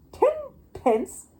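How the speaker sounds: high incredulous echo; stunned auctioneer; echoed in disbelief. Acted. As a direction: repeat it, unable to believe it. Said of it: "echoed the auctioneer".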